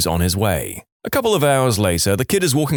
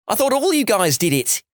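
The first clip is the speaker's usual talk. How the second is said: yelling; 11 semitones higher than usual. Acted. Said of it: "he yells".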